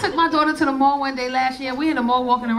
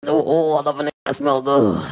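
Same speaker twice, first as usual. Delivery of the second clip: low swoon; 10 semitones lower than usual. Acted. Swooning over boyfriend's smell.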